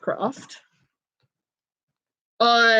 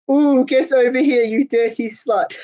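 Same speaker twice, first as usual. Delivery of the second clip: mock flirty message. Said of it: "sending funny messages like".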